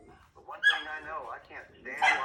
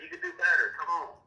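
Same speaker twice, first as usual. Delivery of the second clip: challenging push; 3 semitones higher, 6 dB louder than usual. Retold or imitated. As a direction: spur her on like a coach. Father voices challenging his daughter.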